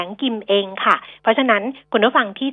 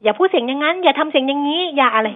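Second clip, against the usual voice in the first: higher-pitched imitation of fussy listeners; mock nagging complaint; 6 semitones higher than usual. Host mimics listeners who message about her style, mock nagging. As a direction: parrot the complainers in a raised pitch.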